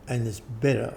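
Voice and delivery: "better" set apart and stressed, at normal volume. Retold or imitated. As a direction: lean on the word "better". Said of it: "I stress the word better".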